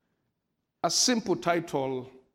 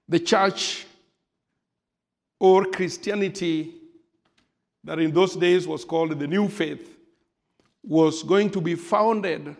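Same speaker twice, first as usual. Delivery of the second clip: rising preaching fervor. Acted. Preacher building up.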